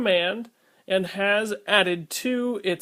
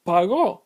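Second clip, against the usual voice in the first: pagó with GÓ stressed, pa-GÓ; stress on last syllable; 4 dB louder than usual. Shown as a demonstration. Teacher demonstrates the accent mark, pagó stressed on the last syllable. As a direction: hit the final O of pagó. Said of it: "with the stress on the last syllable".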